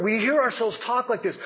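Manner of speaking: normal talking voice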